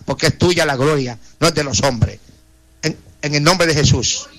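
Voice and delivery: earnest pleading prayer, voice rising and falling; fervent prayer. Acted. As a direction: intercede for each name before God. Radio prayer intercession. (oración ferviente e implorante)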